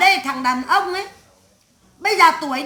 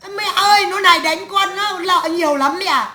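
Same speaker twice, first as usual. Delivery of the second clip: imitated whining complaint. Imitating a wife accusing her husband to her mother, wailing. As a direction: drag out the accusation as a put-on wail. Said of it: "nó vu oan giao họa bảo".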